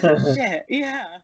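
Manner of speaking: blurted oh shit, loud; sudden realization. Retold or imitated. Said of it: "And I was like".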